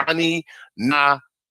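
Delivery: "Ani Natasa" split syllable by syllable; tentative pronunciation. Real, not acted. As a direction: sound out "Ani Natasa" with a stretched TAA. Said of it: "to even pronounce that".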